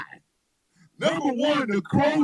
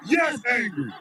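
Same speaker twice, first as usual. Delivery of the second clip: laughing yes; 3 semitones higher than usual. Retold or imitated. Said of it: "Thomas like".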